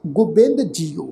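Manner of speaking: ਗੋਬਿੰਦ with a short u after the g; careful pronunciation. Shown as a demonstration. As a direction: say ਗੋਬਿੰਦ as "gubind". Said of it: "ਗੱਗੇ ਨੂੰ ਔਂਕੜ ਦੀ ਮਾਤਰਾ ਲੱਗੀ ਹੋਈ ਹੈ".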